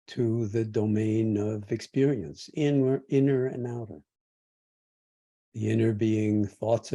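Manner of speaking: measured meditation guidance with long pauses; guided meditation. Real, not acted. Teacher guides meditators through feeling the body sitting and breathing, guided meditation. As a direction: guide them gently, leaving space between phrases.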